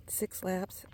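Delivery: Six laps breathed out, winded; tired whispered count; breathless whisper. Real, not acted. Panting count while walking.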